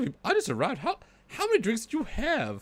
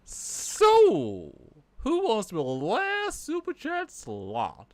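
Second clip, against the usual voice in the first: Colonel Sanders voice; 3 dB louder, slower than usual. Pretend. Puppet colonel asks viewers for chats, Southern colonel voice. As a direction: play a Southern-fried colonel. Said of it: "using the Colonel Sanders voice".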